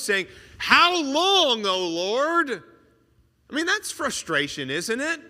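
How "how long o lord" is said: high, loud pleading cry to heaven. Retold or imitated. Martyrs below the altar calling to God, a loud plea. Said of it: "crying out with a loud voice".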